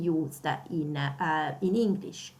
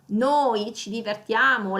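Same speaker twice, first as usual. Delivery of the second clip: noi louder and weighted; stress on noi; 4 dB louder than usual. Shown as a demonstration. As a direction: hit the noi. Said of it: "we wanna stress out that we".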